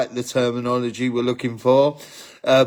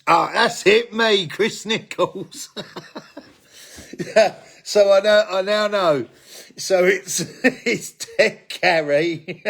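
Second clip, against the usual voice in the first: excited; 6 semitones higher than usual. Real, not acted. Finally remembers the fourth name.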